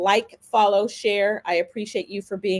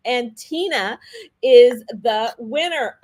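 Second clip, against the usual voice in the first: slow, louder drawn-out reveal; winner announcement; 2 semitones higher, 5 dB louder, slower than usual. Real, not acted.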